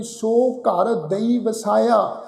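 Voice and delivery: very slow, word by word Gurbani recitation, ਦਈ said clearly; slow scripture recitation. Shown as a demonstration. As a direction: stretch each word out as a model reading. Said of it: "ਫਿਰ ਗਿਆਰਵੀਂ ਜਗ੍ਹਾ ਅਸੀਂ ਪਾਠ ਉਚਾਰਨ ਕਰਦੇ ਹਾਂ ਜੀ". (ਬਹੁਤ ਹੌਲੀ, ਸ਼ਬਦ-ਸ਼ਬਦ ਪਾਠ)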